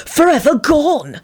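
slow, mock-dark intonation; dark hiss. Sirius echoes Antonin's lament, slow and darkly dramatic. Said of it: "Sirius hissed darkly".

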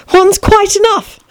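put-on high, slow, girlish voice; polite Alice. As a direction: decline firmly but politely, high.

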